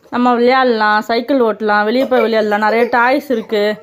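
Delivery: soothing coaxing. Real, not acted. Mother coaxing crying child. (மென்மையாக சமாதானப்படுத்தும் குரல்)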